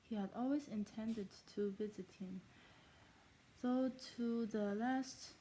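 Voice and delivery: put-on German accent, reading aloud; fake German accent. Shown as a demonstration. Reader performing chapter two of Pride and Prejudice, fake German accent. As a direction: read it in a made-up German accent. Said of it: "in my fake German accent".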